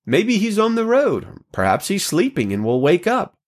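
mocking. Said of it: "Elijah mocked them".

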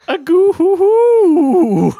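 high, slow goofy jester laugh; jester cackle. Acted.

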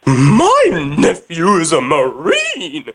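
very slow and deliberate; slow drawn-out delivery. Acted. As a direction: drag each word out. Prank caller repeats nephew line.

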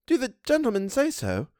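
a worried housekeeper; Missus Gross voice. A narrator's reading. Housekeeper questions the governess, anxious.

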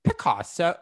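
tentative impression attempt; Hannah Gatsby. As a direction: try out an impression on one word. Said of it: "I'm trying to do it now".

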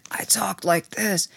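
slow, whispery, smoked-out rasp; smoker's voice. Shown as a demonstration. Actress showing her voice from heavy smoking, slow and whispery. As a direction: drag it out with barely any voice. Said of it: "'cause I was smoking friggin' six packs".

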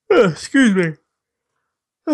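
high, put-on, stagey excuse me; put-on character voice. Norman breaking the silence with Kristen, stagey put-on voice. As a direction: voice it as someone else entirely. Norman speaking after sigh.

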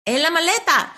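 surprised echo. Retold or imitated. Woman finding her blouse still packed, surprised and loud. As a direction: echo it back in disbelief.

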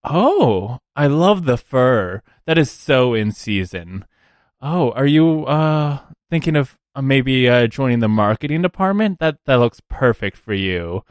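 mildly gushing recruiter's compliments; lightly voiced recruiter. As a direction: lightly play an admiring recruiter. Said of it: "looks at Spark and goes".

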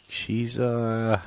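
loud, high, mocking mom voice; hammed-up rude mom, cackling; shouting the insult back at dad, laughing. Voicing mom's imagined retort to dad.

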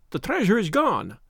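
a lightly voiced frightened little man crying out; sharp querulous cry. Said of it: "a sharp, querulous cry".

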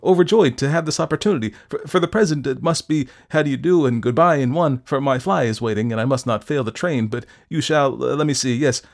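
high, loud, stammering overjoyed patter; flustered effusiveness. A narrator's reading. Doctor greeting Fettes while making excuses, flustered effusion. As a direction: babble politely while trying to escape.

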